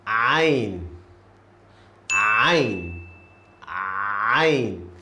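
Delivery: 'Ain' squeezed from the middle of the throat; Arabic letter Ain. Shown as a demonstration. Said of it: "this letter is hard".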